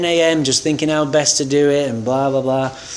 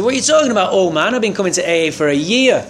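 much higher, indignant protest; angry comeback; 5 semitones higher, faster than usual. Retold or imitated. Snapping at the old man who called him out, angry. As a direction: push back hard at the old-timer. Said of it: "I got so angry".

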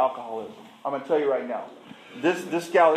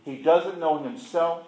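slow, measured, heavy pauses between phrases; deliberate blunt verdict; 4 semitones lower, slower than usual. Acted. Therapist giving her honest opinion of him, slow and blunt. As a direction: spell it out slowly, letting each judgment land.

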